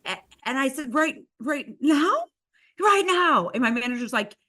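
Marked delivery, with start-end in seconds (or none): 0.9-2.2 slow, high, rising disbelief; stunned question. Retold or imitated. Stunned host checks the designer's order, slow and incredulous. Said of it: "I was so stunned". 2.8-3.5 high, loud, falling command; insistent order. Retold or imitated. Designer answers the stunned host, loud and insistent.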